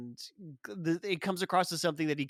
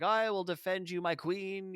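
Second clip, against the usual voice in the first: higher-pitched mock-heroic declaration; hammed-up gallantry; 4 semitones higher than usual. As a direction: ham it up as the devoted defender. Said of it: "really hamming it up".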